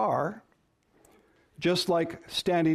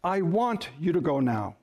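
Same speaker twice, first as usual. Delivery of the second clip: "want" leaned on, the rest falling away; stress on want. Shown as a demonstration. Spouse showing how emphasis changes meaning, stress on "want". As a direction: press on the word "want". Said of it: "says something like this".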